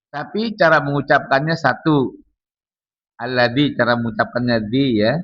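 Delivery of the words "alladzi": Alladzi, dzal with the tongue tip between the teeth. Shown as a demonstration. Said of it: "Gigit ujung lidahnya".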